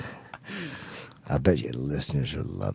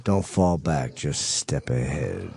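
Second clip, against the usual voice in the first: radio voice; slower than usual. Shown as a demonstration. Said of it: "Stop talking like that".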